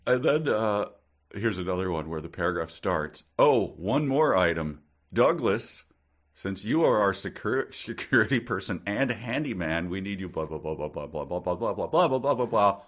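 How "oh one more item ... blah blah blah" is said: lightly bossy hostess voice; mild mock Marisol briefing the handyman; Marisol's orders. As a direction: fire off the orders to Douglas. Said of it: "said Marisol".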